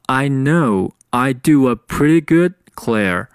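"pretty" with d for t; "good" with its final d held back; linked-up sentence. Shown as a demonstration. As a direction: model read, "pretty good" run together. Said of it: "那这句话就变成了".

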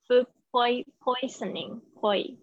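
"poisoning" slowly, with "poi-" broken off and repeated; pronunciation demo. Shown as a demonstration. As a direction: isolate the "poi-" in "poisoning" for the learner. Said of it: "much better". (慢速示范"poisoning"，单独重复"poi-")

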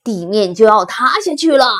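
loud warning, mid pitch; alarmed shout. Acted. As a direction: elephant calling out the danger. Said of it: "大象叫道". (大声喊着警告)

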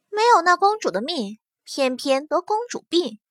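provocative taunt. Acted. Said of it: "挑衅地勾了一下嘴角".

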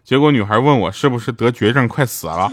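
usual speaking voice

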